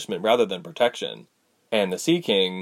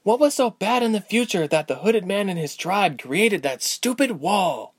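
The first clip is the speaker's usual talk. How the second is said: put-on frustrated young woman, higher pitch; upset, raised voice; 9 semitones higher than usual. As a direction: demand it, rising in anger. Ilse upset at the wall.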